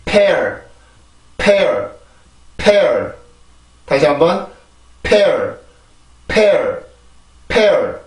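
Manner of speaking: pear in one syllable with a falling tune; English pear. Shown as a demonstration. Teacher models pear slowly for students. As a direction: pear with an aspirated p and a final r. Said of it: "피 발음이 들어가게 되면 이렇게 발음을 하죠".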